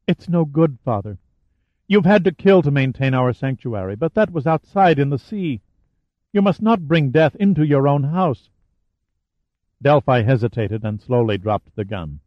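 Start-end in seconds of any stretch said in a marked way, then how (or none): 0.1-8.5 lightly voiced daughter, higher and pleading; young woman pleading. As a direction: plead with your father, a hint of a young woman.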